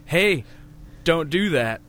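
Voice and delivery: mock yell of a warning; retold yell. Friend retelling the hero yelling a warning, mock yell. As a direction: call out a warning, half-acted. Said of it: "where he yells".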